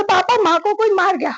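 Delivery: half-relived alarmed shout; retold shout. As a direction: re-enact yelling for Papa in alarm. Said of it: "पापा को आवाज दे के जोर से चिल्ला के".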